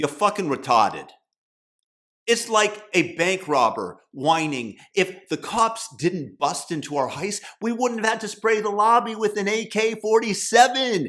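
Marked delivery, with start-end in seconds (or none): 0.0-1.1 South Boston accent, lower and faster. Speaker tells a listener off for emphasis, in a Southie accent. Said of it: "in my best Southie accent".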